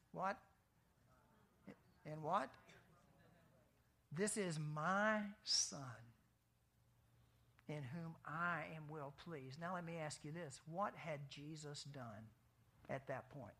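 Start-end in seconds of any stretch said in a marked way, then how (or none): 4.1-9.6 voicing the Father. Preacher voicing the Father slowly.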